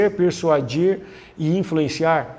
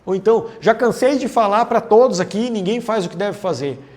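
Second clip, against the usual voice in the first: exasperated complaining; 3 semitones higher, 4 dB louder than usual. Shown as a demonstration. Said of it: "Generalizar é quando eu falo".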